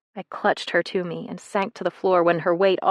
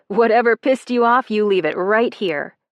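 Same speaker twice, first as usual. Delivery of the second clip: loud urging, easing at the end; coach yelling; 3 semitones higher, 6 dB louder than usual. Acted. Coach yelling at the girl, loud then easing. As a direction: push her to leave her anger here.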